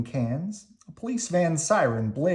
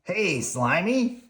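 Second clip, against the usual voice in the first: gruff grouchy Oscar; grumpy garbage-can grouch; 7 semitones higher, slower than usual. Acted. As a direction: growl it like a grouch. Oscar voiced in read story.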